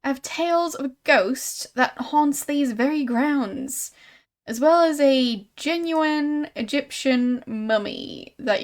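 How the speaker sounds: lightly voiced showman's patter; sideshow huckster. Exhibitor pitching a mummy to a visitor, showy.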